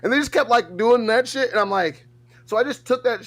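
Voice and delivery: high, loud excited rush; bursting with it, voice jumps up. Real, not acted. Telling friends about the prank, high and excited.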